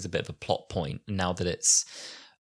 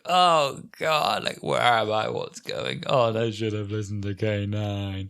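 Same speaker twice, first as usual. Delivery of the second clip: mock panicked damsel. Sarah Jane arriving somewhere strange, hammed-up fluster. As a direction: play the lost, flustered companion.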